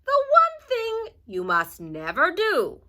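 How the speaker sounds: high, loud, slow warning; slow, stern grandma warning; old witch warning her helper; Strega Nona warning. A narrator's reading. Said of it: "said Strega Nona".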